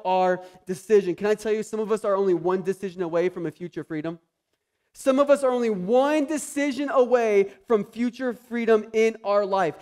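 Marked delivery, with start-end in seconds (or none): 4.9-9.8 higher and louder, stretched out; preaching emphasis. Shown as a demonstration. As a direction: proclaim it so it lands. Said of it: "repeat of line".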